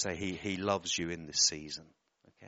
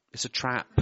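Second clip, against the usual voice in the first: laughing; 4 semitones higher than usual. Real, not acted. Joking aside, laughing.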